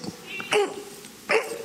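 short, high, muffled straining grunts; frustrated effort grunts. Acted. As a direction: grunt softly with each blow. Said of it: "I know it was a frustration".

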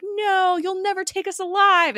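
high, loud mock-heroic cry; hammed-up last stand defiance; overdramatic. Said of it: "May mentions how overdramatic Coulson".

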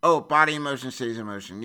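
brush-off, fast like a tired saying; "Oh, body in motion stays in motion" tossed off quickly as a cliché; dismissive. Retold or imitated. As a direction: rattle off the Texas-free cliché, bored. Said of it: "Because we hear".

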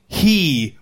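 HE said alone, leaned on; one weighty word He; stress on he. Shown as a demonstration. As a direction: land hard on the single word He. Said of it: "The emphasis there is on he".

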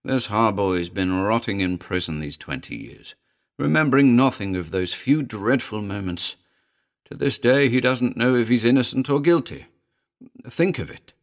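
mounting, fervent plea; impassioned man. Acted. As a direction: appeal building in pitch and force. Royds pleads for his friend.

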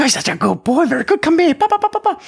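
put-on very high falsetto baby talk to a dog; girl voice. Shown as a demonstration. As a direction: squeal excited praise to your dog in baby voice. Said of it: "using that girl voice, using that baby voice".

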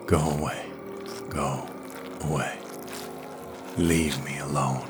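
low, soft, toneless monotone; dead voice, no life in it; entranced Smith sending Yarrow away, toneless; without inflection. A narrator's reading. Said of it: "without inflection".

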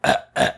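imitated choking cough; fake choking cough. Imitating a prankster to his friends, fake choking cough. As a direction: cough as if pretending to choke. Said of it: "he's pretends he's choking".

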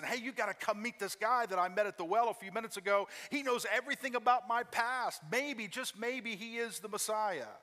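a woman telling her friends about the man at the well, excitedly. Retold or imitated. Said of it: "she gets so excited".

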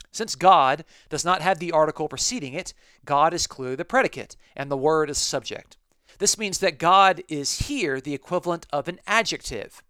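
reading the handbook aloud, a touch emphatic; quoting the handbook. Retold or imitated. Teacher reading a scholarly quote to the class with emphasis. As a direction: read it out like a cited authority.

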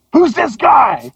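high, put-on voice sizing up a stranger; mock-menacing who-are-you; suspicious rock singer. Singer eyeing an unknown man on his tour bus, high mock-suspicious voice.

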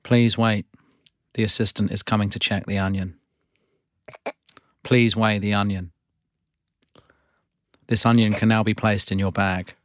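machine-like checkout announcements; self checkout prompts. Acted. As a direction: read them as a store checkout machine. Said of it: "You are playing the character Prompt".

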